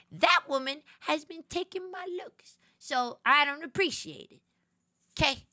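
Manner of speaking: loud, emphatic offended rant; playfully haughty telling-off; mock diva indignation. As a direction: protest like a wronged diva. Mock diva rant about copying.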